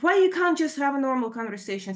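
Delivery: high, exasperated retold demand; fed-up daughter's complaint; angry demand. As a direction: imitate a daughter pleading crossly with mom. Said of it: "I can see that anger is coming out".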